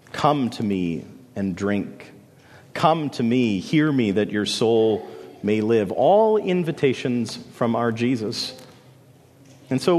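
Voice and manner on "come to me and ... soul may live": gentle invitation. Acted. Quoting Jesus' invitation.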